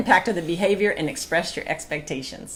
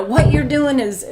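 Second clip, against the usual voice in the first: retold accusation; 8 semitones higher, 7 dB louder, slower than usual. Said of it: "I used to say".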